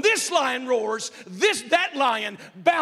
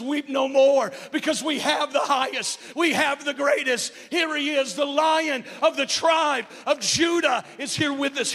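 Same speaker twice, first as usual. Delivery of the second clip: ringing, louder heralding; proclaimed announcement; 3 semitones higher, 3 dB louder than usual. Retold or imitated. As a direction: announce the good news with triumph. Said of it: "one of the believers comes and says".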